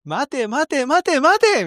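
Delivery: slow, high drawn-out call to stop; mock urgent shout. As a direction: drag it out like a desperate movie hero. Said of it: "みたいな". (映画の主人公のように必死に引き止める)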